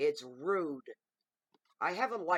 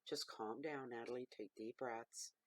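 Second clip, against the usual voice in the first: softer, slow patronizing soothing; mock soothing voice; 3 semitones lower, 8 dB quieter than usual. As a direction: talk her down like a stranger online. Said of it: "Those that don't know me".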